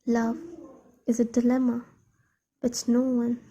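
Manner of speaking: measured, lightly performed verse reading; poem recitation. Acted. Poet shares a poem on love's dilemma, measured recitation. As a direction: recite evenly, pausing between phrases.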